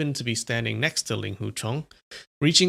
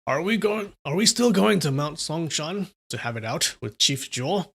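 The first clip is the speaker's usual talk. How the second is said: anxious apprentices; 4 semitones higher than usual. Acted. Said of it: "they all thought".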